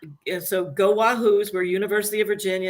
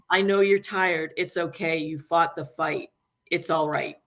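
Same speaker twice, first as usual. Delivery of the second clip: gentle comfort; 3 semitones lower than usual. Retold or imitated. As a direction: let him go gently. Comforting a dying friend.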